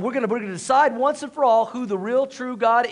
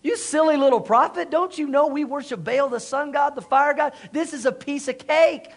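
high, cocky taunt; acted-out scornful boasting; mocking prophets; 4 semitones higher than usual. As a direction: belittle a feeble rival with easy confidence. Acts out prophets taunting Elijah.

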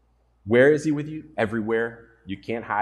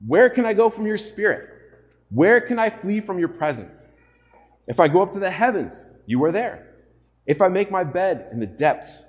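raised, high proclaiming voice; fervent scripture reading; 6 semitones higher, 5 dB louder than usual. Acted. Preacher to congregation, reading the psalm loud and fervent. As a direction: call the psalm out with rising force.

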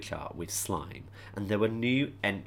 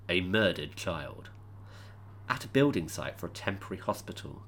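ominous movie trailer read; horror trailer voice. Acted. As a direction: read it like a dark thriller trailer. Reads a dramatic book blurb.

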